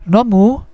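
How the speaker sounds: "Nomu" lifted high at the end as a question; rising question intonation. Shown as a demonstration. Teacher shows students a casual question, "Nomu" with rising intonation. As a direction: turn "Nomu" into a question by raising the final syllable. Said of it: "menaikkan intonasi di bagian akhir".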